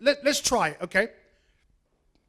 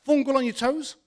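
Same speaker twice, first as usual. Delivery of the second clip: puzzled inner thought; 3 semitones higher, 5 dB quieter than usual. Retold or imitated. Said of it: "I thought to myself".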